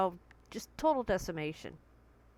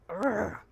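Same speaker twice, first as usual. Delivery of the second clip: frustrated growl; 3 dB louder than usual. Shown as a demonstration. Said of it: "just a moment of".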